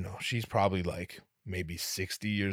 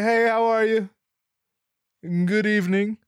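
loud, high-voiced hello; high-pitched polite greeting; 13 semitones higher, 9 dB louder than usual. Customer greeting the jolly clerk, high-pitched and polite. His overbright reply to clerk.

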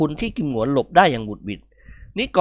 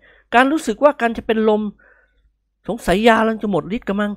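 faint character voice; 8 semitones higher than usual. A narrator's reading. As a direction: sound ready to pass out. Nikorn feeling faint. (นิกรพูดอ่อนแรงจะเป็นลม)

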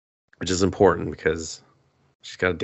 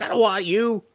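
mock girl voice; 12 semitones higher than usual. Suzume voiced rejecting the cat.

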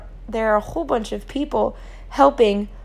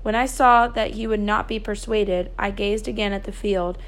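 measured storytelling with lightly voiced dialogue; story narration; 3 dB quieter than usual. A narrator's reading. A narrator reads the children's night of the fire, storytelling. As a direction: read aloud as a novel's narrator.

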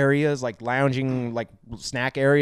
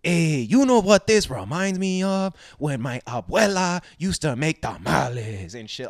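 slow, higher mocking Latino voice; mock stereotype voice; 4 semitones higher than usual. Mocking the skeleton's stereotype voice to friend, slow. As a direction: lay on a cheesy stereotype. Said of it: "I was like".

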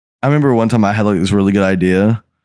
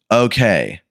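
slow-ass talking. Retold or imitated. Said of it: "like, slow ass talking".

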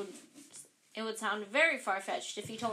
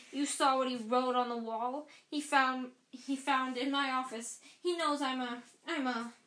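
louder, higher, agitated Filch; raging accusation; 3 semitones higher, 4 dB louder than usual. Acted. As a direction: pile on the accusations, then falter.

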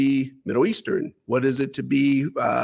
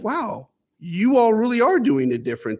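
higher-pitched imitation of pleasant surprise; taken aback; 8 semitones higher than usual. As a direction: react as if taken aback, voice lifted. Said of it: "they were taken back".

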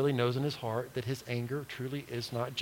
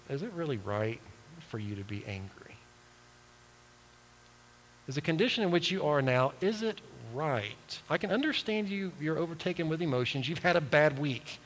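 gentle God. Retold or imitated. God gently questions Jonah.

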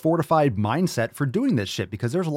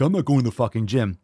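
mock viewer; faster than usual. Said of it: "nine hundred ninety are like".

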